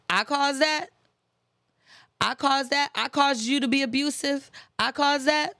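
mock the excuse incredulously. Parodying a narcissist blaming the victim, sarcastic.

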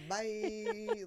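very high, loud comic "bye"; mock farewell. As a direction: toss off a high-pitched, drawn-out goodbye. Mimes Krampus yeeting the other chick.

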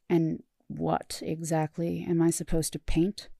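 slow, reluctant question; grudging. Acted. Starscream reluctantly asking what to paint, grudging and slow. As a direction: begrudgingly give in.

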